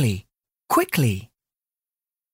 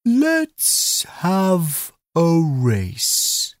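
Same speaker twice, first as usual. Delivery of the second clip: slow tortoise voice; 4 semitones higher, much slower than usual. Acted. Tortoise challenges rabbit to race.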